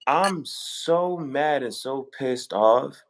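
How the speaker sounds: slow, deliberate, each word leaned on; emphatic mad. Shown as a demonstration. Showing the host how mad he means, slow and heavy. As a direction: drag it out to show how mad you are. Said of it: "I'm about to say it like this".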